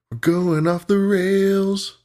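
high, stretched-out singsong call; long high playful wail; drawn-out call. Pretend. Drawn-out mock announcement of derailing.

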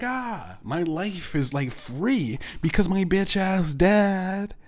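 giddy, high and gloating; mock joyful. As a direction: celebrate like you're free. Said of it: "I will be like".

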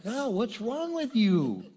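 slow, laughing put-down; mock scorn with a laugh. Preacher imitating a scoffing friend, slow and laughing. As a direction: drag it out and laugh at the dreamer.

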